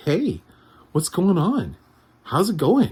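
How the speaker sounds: put-on very high, swooping sing-song voice for little kids. Describing a woman's voice range, the speaker demonstrates the voice for talking to kids. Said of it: "like that voice that you have when you talk to your kids".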